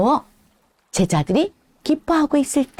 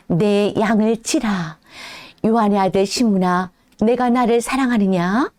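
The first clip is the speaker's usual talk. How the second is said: lower, calm tender question; gentle Jesus; 3 semitones lower than usual. Acted. Jesus asking Peter if he loves him, low and tender. Jesus asks third time.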